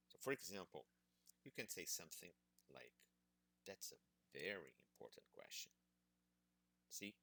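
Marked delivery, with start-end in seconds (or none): 3.6-5.7 "very" stretched out and emphasized; stress on VERY. Shown as a demonstration. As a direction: lean on "very", drawing it out to show you care. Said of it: "pronouncing the word very loudly, by stretching it".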